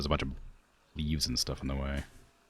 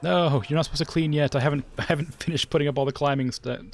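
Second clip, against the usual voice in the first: exasperated protest; 10 semitones higher, 5 dB louder, faster than usual. Real, not acted. Staff cleaning too early.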